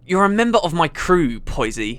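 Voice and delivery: mildly snarled rebuke, dropping at the end; snarling. Acted. Crew leader rebuking the engineer, snarling. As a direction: snarl it with restrained menace. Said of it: "he snarled".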